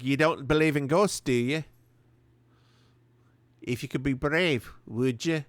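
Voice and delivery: lightly voiced animated film heroine; a hint of a character voice, played for laughs; Merida impression. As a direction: do a light cartoon heroine impersonation. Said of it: "That's my Merida impersonation".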